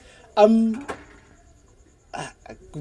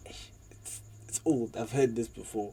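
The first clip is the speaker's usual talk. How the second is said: bored dismissal; 5 semitones lower, 17 dB quieter than usual. Retold or imitated. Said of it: "it's like".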